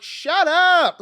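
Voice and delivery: retold teenage outburst; blurted shut up. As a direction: snap it out, fed up. Retelling blurting at church.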